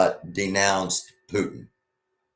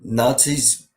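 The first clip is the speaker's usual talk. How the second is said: incredulous; 5 semitones higher than usual. Real, not acted. Reacting to absurd clip claim.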